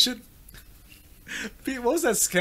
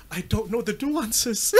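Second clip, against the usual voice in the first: attempted Scottish accent; 4 dB quieter, slower than usual. Shown as a demonstration. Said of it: "if you're in a quiet conversation".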